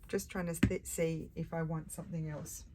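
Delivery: talking through hiccups. Real, not acted. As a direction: catch on a hiccup mid-sentence. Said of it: "I've had the hiccups".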